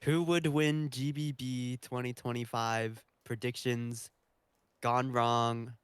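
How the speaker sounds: slow, deliberate mock title; clickbait title read. Co-host jokes up a video title, slow mock announcement. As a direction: recite it slowly like a video title.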